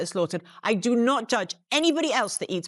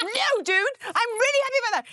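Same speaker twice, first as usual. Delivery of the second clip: amused; 11 semitones higher than usual. Retold or imitated. Retort to friend, amused.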